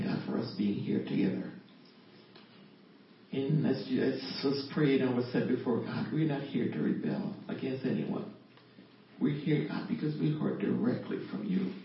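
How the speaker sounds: earnest, measured spoken prayer. Acted. Thanking God for being here together, earnest prayer. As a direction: pray aloud, addressing God directly.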